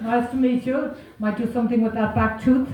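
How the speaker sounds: dentist's greeting. Retold or imitated. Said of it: "And he went".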